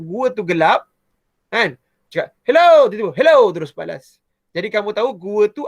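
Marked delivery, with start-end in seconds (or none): 2.4-2.9 calling out. Shown as a demonstration. Calling out in a small cave. 3.1-3.5 echo call. Shown as a demonstration. Instant echo in a small cave.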